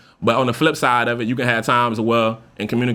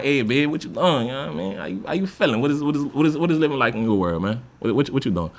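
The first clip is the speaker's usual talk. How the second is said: softer, smooth sweet-talk; lightly flirtatious, easy murmur; flirty check-in; 2 semitones higher, 3 dB quieter than usual. Shown as a demonstration. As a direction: lay it on smooth for your babe. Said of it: "that vibe".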